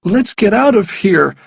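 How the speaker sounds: high, loud, urgent plea. A narrator's reading. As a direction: press hard to get away now.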